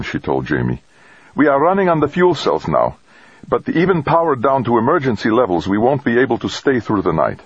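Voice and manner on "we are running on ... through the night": much higher-pitched, urgent character voice; grim cosmonaut woman. Acted. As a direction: report the emergency in a raised pitch. Voices Stacy reporting power failure.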